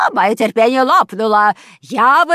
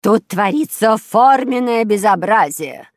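loud, raised indignant complaint; angry; 4 semitones higher, 7 dB louder, slower than usual. A narrator's reading. Neighbour complaining to police captain, angry and loud. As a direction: protest loudly, drawing out the outrage. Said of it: "сердито топнула ногой фрау Штрудель".

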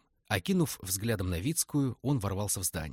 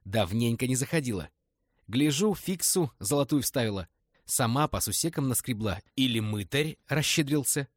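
gruff thug greeting; 4 semitones higher, 4 dB louder than usual. Acted. Zumer greets Liza at door.

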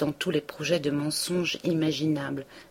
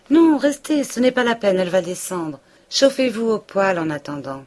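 high, loud, eager host; fussy Homais; 5 semitones higher, 7 dB louder than usual. A narrator's reading. Homais insisting Emma stay by the stove, high and eager. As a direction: fuss over her importantly.

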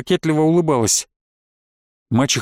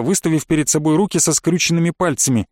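plain reading voice

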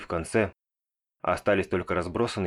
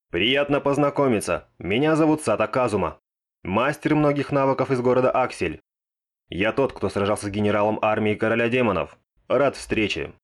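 mock-grandiose higher self-introduction; parodying grand intro; 3 semitones higher, 4 dB louder than usual. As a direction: copy his pompous intro playfully. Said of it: "специально спародировав его представление". (пародия на пафосное представление)

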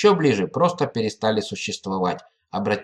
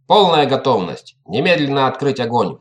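shouted command; 4 dB louder than usual. Acted. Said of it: "выкрикнул Галиев".

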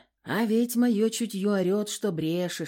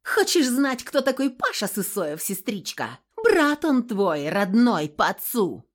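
loud, high taunt, slowing on the blow; woman taunts her cousin with the secret, screaming; spiteful yell; 5 semitones higher, 6 dB louder than usual. Acted. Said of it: "перекосило от злости".

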